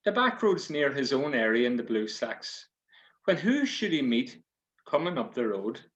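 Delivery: lively storyteller opening a yarn; story narration. A narrator's reading. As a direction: tell it like a fireside yarn.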